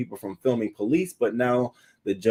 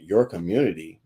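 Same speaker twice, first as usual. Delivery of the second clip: deadpan disbelief; 4 semitones lower than usual. Retold or imitated. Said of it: "talking like that".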